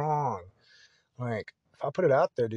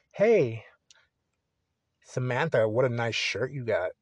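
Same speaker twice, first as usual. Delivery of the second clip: passive aggressive. Shown as a demonstration. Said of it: "passive aggressive has a tone to it".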